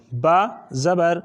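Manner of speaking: each letter and زبر said slowly, with جیم drawn long; slow spelling only. Shown as a demonstration. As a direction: spell them out slowly so pupils follow. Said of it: "صرف ہجا کروں گا". (صرف ہجا، آہستہ آہستہ)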